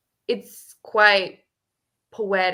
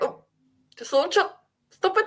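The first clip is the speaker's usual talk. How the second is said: mock menacing Mirka; 12 semitones higher, faster than usual. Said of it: "I turned into Mirka".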